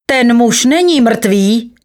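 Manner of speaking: high, slow, emphatic announcement; strong voice. A narrator's reading. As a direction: declare it strongly, drawing out the words. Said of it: "měl překvapivě silný hlas". (důrazné zvolání silným hlasem)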